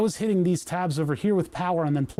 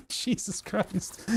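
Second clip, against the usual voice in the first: breathy disbelief; 3 semitones higher, 7 dB quieter, much slower than usual. Real, not acted. Bills cover the whole desk.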